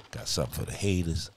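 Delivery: loud, laughing boast; gleeful. Real, not acted. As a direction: brag with glee. Gleeful about his weapons.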